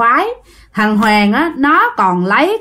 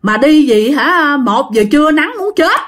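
raised, higher exasperated complaint; crying out in protest; 4 semitones higher than usual. Acted. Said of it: "chút nó mới la lên". (la lên phản đối, giọng cao)

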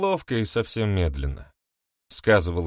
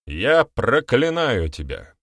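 slow, drawn-out pronouncement; even and solemn; 3 semitones higher, 4 dB louder, slower than usual. A narrator's reading. Beramir lays a curse on the accuser, solemn. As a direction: intone it like a formal curse. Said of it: "ровно и торжественно произнёс".

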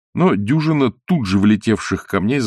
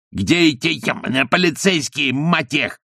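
higher-pitched angry yell; 7 semitones higher than usual. A narrator's reading. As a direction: hurl the curse at the absent police. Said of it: "вопил он". (гневный вопль)

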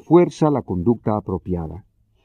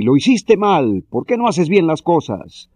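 mock scolding; 5 semitones higher than usual. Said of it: "se quedan a la distancia y gritan".

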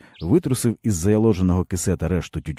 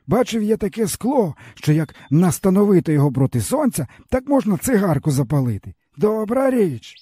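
higher, bitter village man's voice; weary peasant man; 13 semitones higher than usual. A narrator's reading. Stepan tells the boy his woes, bitterly. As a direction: speak as a broken old peasant.

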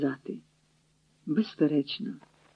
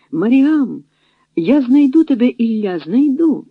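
loud, higher cry of promise; calling out; 6 semitones higher, 6 dB louder, slower than usual. A narrator's reading. Маріам is pulled to the sledge and calls to Ілля, a loud cry. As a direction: shout it after him as she's dragged away. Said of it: "гукнула Маріам".

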